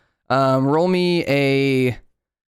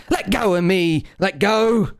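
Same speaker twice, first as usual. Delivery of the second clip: higher, mock-desperate yelp to be released; struggling demand; 7 semitones higher than usual. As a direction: squeal it like a tiny captive critter. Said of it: "And he goes".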